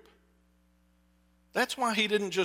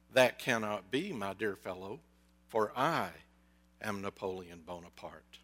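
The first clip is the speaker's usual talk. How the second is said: pompous Napoleon; 7 semitones lower, 4 dB quieter than usual. Retold or imitated. Joke: pompous mental patient.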